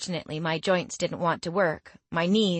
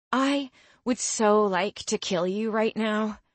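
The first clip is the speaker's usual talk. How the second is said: slow, teeth clenched, pitched up; through clenched teeth; 4 semitones higher than usual. Acted. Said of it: "I said through clenched teeth".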